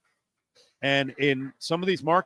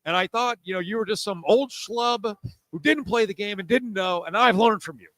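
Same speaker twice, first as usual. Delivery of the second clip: high, mock-humble impression of the co-host; 9 semitones higher than usual. Co-host mimics host admitting he learned, mock high voice. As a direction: ham up a grateful convert, pitched way up. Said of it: "and you're like".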